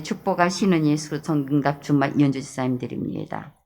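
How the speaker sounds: steady, even prayer-meeting reading; calm liturgical reading. Acted. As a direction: read out the prayer list reverently. Reads prayer requests.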